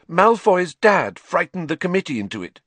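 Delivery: tearful. A narrator's reading. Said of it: "wiping her eyes".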